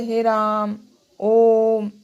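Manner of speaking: prolonged calling demo. Shown as a demonstration. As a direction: call as if across a field. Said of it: "जोर से बोलना पड़ता है".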